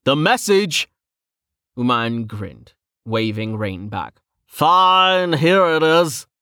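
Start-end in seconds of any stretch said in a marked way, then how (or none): 0.0-0.9 high, loud demand; insist, nearly angry; irritated. A narrator's reading. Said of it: "irritation flashing almost to anger". 4.5-6.3 loud, high give-in; okay, okay, relenting. A narrator's reading. Uman relents loudly.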